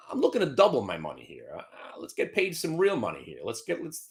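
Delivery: conspiratorial whisper. Real, not acted. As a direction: whisper it like a secret plan. Scheming aside to self.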